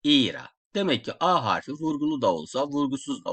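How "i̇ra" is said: "İra" said louder, EE-ra, the İ held; stress on İ. Shown as a demonstration. Teacher repeating the word, louder on the first syllable. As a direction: punch the İ of "İra". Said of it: "Vurgu i'nin üzerinde".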